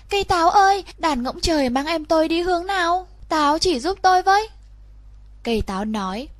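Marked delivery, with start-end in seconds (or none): 0.1-4.5 put-on higher, eager little girl asking; a small girl anxiously seeking her brother; girl's voice. Girl asks the apple tree. (giọng bé gái cao, hỏi han lo lắng)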